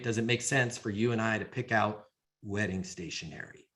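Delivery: low, soft mock-tender question; mock proposal. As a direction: pop it gently like a suitor. Mock proposal on one knee.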